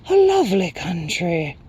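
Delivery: high, airy hooting creature; delighted Night Hob. A narrator's reading. Night creature admiring sprite's homeland, delighted high hoot. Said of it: "cried the Night Hob delightedly".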